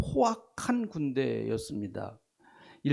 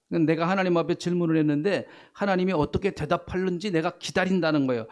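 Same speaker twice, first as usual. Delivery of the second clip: usual speaking voice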